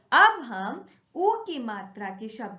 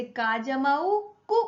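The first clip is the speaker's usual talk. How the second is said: quick short vowel; 3 dB louder than usual. Shown as a demonstration. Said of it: "हमने बहुत जल्दी से बोला".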